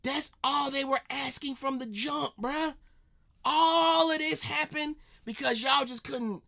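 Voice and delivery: high exasperated repeat. Real, not acted. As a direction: rise up in disbelief. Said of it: "That's what I'm saying".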